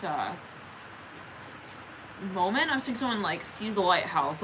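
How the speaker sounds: normal talking voice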